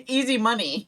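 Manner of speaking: laughing repeat. Real, not acted.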